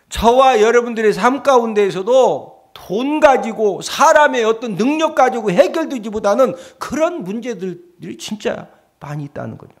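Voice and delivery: usual speaking voice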